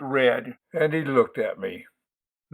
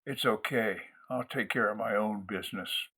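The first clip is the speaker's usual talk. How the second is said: much softer, lower, cold steady whisper; quiet menace that never rises; deadly whisper; 4 semitones lower, 13 dB quieter than usual. Acted. Lloyd calmly telling narrator he'll handle it, deadly whisper. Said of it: "He whispered in a deadly voice that never rose".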